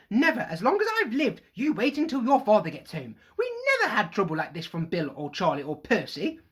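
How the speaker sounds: high, loud furious tirade at her sons; raging mother. Acted. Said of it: "they cowered as her rage broke over them".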